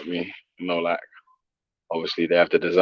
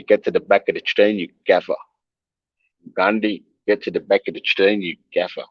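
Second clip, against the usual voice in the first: put-on amateur South African accent. Streamer trying out an order to Gandhi, in a put-on South African accent. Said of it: "That's my best South African accent still".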